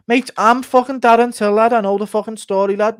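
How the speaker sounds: high-pitched, exasperated Darren Till voice; Till impression. Till fed up with Ortega's stories on a fishing trip, high exasperated impression. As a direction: rant high and fed up, threatening to quit. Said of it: "Ortega and Till on a fishing trip impression".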